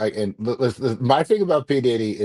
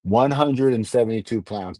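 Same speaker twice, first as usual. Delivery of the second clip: Alexa impression; 2 semitones lower than usual. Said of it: "My Alexa has a black accent".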